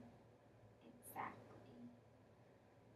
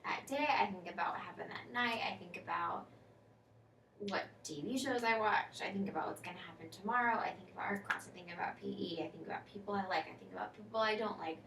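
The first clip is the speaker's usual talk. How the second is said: racing thoughts; 4 dB louder than usual. Acted. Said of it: "your thoughts are just sort of racing".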